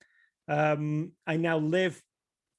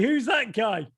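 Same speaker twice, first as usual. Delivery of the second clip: slightly raised attempt at an American accent; 5 semitones higher than usual. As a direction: try a half-hearted American accent, without shouting. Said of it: "say it in an American accent".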